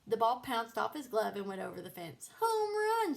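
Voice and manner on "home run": loud high triumphant shout. Acted. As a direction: crow it out. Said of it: "shouted Francine".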